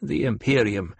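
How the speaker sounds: a demanding elder questioning her pupil; old Reverend Mother. Acted. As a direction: severe old matriarch.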